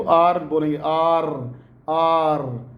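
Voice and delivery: "आर" with the tongue tip curled up; rhotic, held "आर"; American R. Shown as a demonstration. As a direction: draw out "आर" into an American r. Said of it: "आर बोलते हुए आपकी जो tip of the tongue".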